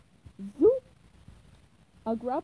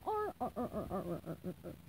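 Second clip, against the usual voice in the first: fading "arr arr" chuckle, softer each time; pirate chuckle; 4 semitones lower, 7 dB quieter than usual. Acted. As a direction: gloat over the cash. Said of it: "chuckled with joy".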